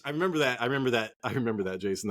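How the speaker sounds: mock echo effect fading out. Shown as a demonstration. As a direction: repeat it like an echo dying away. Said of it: "That was good".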